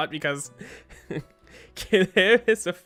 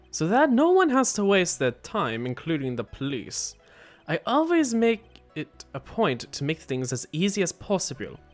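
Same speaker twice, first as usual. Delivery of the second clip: put-on accented hitman character. Killer explains his client's guilt, accented character voice. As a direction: declare it as a formal accented killer.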